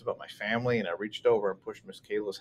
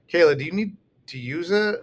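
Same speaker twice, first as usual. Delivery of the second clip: calling out; 7 semitones higher, 7 dB louder than usual. A narrator's reading. Calls to little sister, aggravated.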